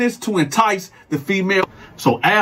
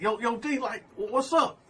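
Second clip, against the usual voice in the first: hushed plea; 7 semitones higher, 6 dB quieter than usual. Retold or imitated. Al looked right up at me.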